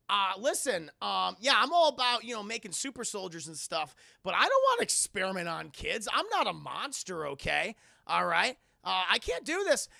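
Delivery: loud, put-upon refusal; mock indignant doctor. Doctor Boopy refusing to experiment on kids, mock indignant. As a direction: protest like a reluctant scientist.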